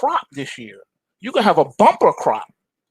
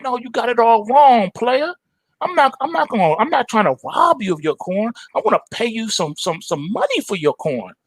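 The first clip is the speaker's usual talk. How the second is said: higher, persuasive street voice; smooth hustler tiger; 7 semitones higher than usual. Acted. Tony the Tiger pitches his deal to Farmer Brown, high persuasive hustler voice. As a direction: sell the deal like a player. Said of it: "He's like".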